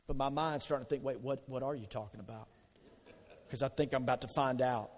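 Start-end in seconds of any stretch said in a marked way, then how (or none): 1.0-2.5 worried inner voice. Acted. Inner thought of Peter.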